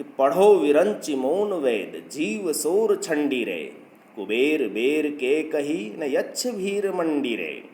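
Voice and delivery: slow, measured chanting of the verse; slow Hindi verse recital; verse recitation. Acted. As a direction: draw out each line like a recited poem.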